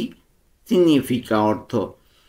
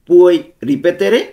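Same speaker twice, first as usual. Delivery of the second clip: Puoi ripetere drawn out very slowly, syllable by syllable, louder; slow pronunciation model; 5 semitones higher, 7 dB louder, much slower than usual. Shown as a demonstration. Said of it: "উচ্চারণগুলো ভালো মতো খেয়াল করব". (খুব ধীরে, স্পষ্ট করে উচ্চারণ)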